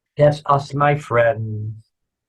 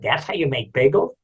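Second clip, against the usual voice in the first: incredulous question; 2 semitones higher than usual. Acted. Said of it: "He said".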